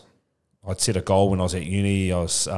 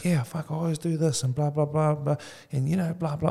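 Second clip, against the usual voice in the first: imitating his son's fed-up rant, pitched well up; mock whiny teen son; 9 semitones higher than usual. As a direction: play the son griping and waving it off with blah blah. Son venting about his own habits.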